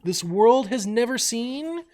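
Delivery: high, loud, slow theatrical outrage; outraged rant. Acted. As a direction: rant like a scandalized villain. Outraged rant at opponent cheating.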